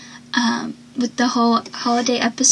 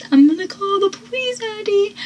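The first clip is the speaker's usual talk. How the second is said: high-pitched imitation of a threat; mock threat; 8 semitones higher, faster than usual. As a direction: call it out in a high put-on voice. Acts out Ursula's threat.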